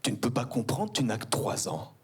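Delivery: a hint of a patient mother, whispered at the end; mildly voiced mother soothing her son; mother's answer. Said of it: "ma mère me répondre".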